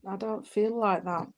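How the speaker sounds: a private whisper of disagreement; whispered doubt. Real, not acted. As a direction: murmur it under your breath, unsure. Medium doubting the sitter's order.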